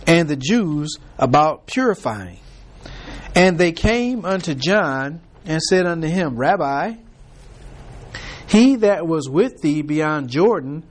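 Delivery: slow, measured Bible reading; preacher reading King James verses; scripture reading. Acted. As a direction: read the verses deliberately from the pulpit. Reads scripture passage aloud.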